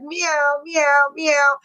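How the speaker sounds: lightly mimicked cat meows; kitty-cat meow. Mocking men drawn like cats, light kitty-cat meows. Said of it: "like a kitty cat".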